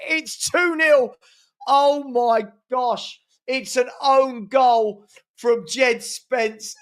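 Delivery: aghast disbelief. Real, not acted. Own goal conceded.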